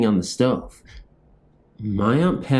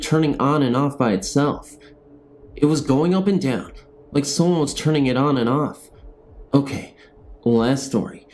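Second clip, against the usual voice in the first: ghost story reading; 3 semitones higher than usual. Acted. Narrator reading a haunting story to viewers, steady storytelling. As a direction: read the spooky tale to viewers.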